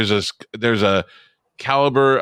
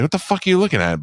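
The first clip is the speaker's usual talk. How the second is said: pitched-up imitated confrontation; much higher mock what the fuck; mock bar challenge; 9 semitones higher, faster than usual. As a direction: act out the bar challenge you held back. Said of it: "I wanted to be like".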